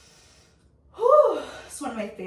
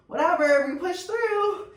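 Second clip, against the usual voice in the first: laughing; 7 semitones higher, 5 dB louder than usual. Real, not acted. Laughing off the foot cramp.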